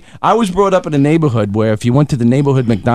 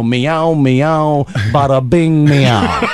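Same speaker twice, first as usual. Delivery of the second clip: Brooklyn cat; much slower than usual. Retold or imitated. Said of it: "If cats could talk, they'd go".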